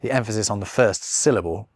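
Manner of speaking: usual speaking voice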